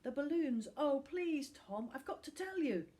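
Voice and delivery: put-on high, urgent boy voice; pleading boy. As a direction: beg to be heard. Finn pleads with Tom.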